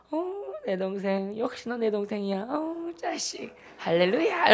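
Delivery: soft, slow, drawn-out cooing praise; mock gushing affection. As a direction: imitate a sister delighted with her brother. Sister gushes over brother, acted.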